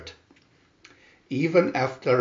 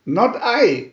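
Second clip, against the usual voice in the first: higher, louder lazy duck refusing; 9 semitones higher, 6 dB louder than usual. A narrator's reading. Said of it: "quacked the duck".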